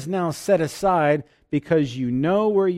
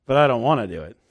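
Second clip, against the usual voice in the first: unwilling subtext; 3 semitones lower, faster than usual. Retold or imitated. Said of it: "What's the tone of voice say".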